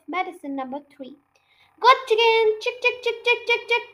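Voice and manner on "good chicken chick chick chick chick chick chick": high, sing-song chick-chick call; boy coaxing a chicken with high calls. A narrator's reading. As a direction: call the hen in, pitched way up. Calling the chicken over.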